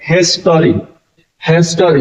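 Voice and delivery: "हिस्ट्री" with the weight on HIS; stress on first syllable. Shown as a demonstration. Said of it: "यहाँ पे जोर किस पे दिया जा रहा है?".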